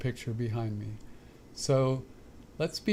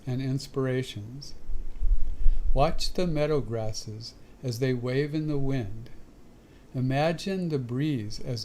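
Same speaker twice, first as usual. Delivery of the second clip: measured inspirational reading with long pauses between phrases; devotional reading. Real, not acted. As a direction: read the meditation passage aloud, phrase by phrase. Reads a devotional passage aloud.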